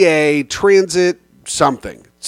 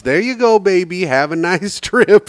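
lightly voiced motherly send-off, higher pitch; nice lady driver; 4 semitones higher than usual. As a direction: imitate a kind lady, with a little laugh. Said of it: "She was so nice".

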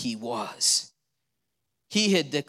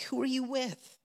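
devil's challenge; 9 semitones higher, 7 dB quieter than usual. Retold or imitated. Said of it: "the devil's like".

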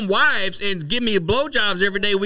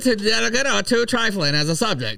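1940s voice. Acted. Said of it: "That's my nineteen forties voice".

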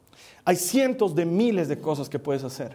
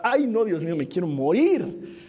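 mildly dramatic dismay, slowing at the end; groan-like slow plea, played for comedy; mock dread. Shy preacher imagining having to greet people, mock dread. Acting his dread of socializing.

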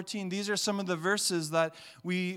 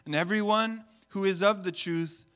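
solemn scripture reading; 5 dB louder than usual. Real, not acted. Pastor reading Jesus's words to church, solemn. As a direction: read the words of Jesus with weight.

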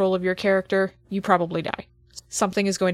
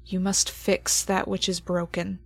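game master scene setting. Acted. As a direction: hand down the creature's judgement gravely. GM narrates the creature's judgement.

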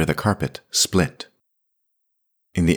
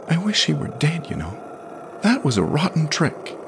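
put-on high child's voice, resentful; a hurt kid lashing out; high-pitched sullen boy; sulky boy; 11 semitones higher than usual. A narrator's reading. Jamie's voice, sulky.

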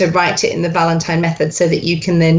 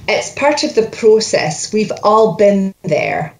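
Scottish coach modelling the whole line; Scottish accent. Shown as a demonstration. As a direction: give the line in clear Scottish. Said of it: "You're Scottish all the way through".

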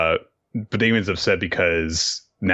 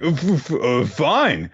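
grudging Damien; 8 semitones higher, slower than usual. Retold or imitated. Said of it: "Damien's like".

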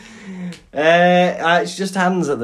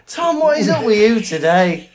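higher, louder, drawn-out mock reproach; mock scolding; 6 semitones higher, 5 dB louder, slower than usual. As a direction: scold a friend in hammed-up outrage.

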